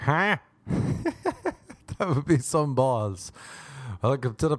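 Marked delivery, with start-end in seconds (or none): 0.0-0.4 short high "huh"; imitated odd laugh. Partner's odd sound to the lover, high mock huh. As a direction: let out a high, abrupt huh. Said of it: "they say something like".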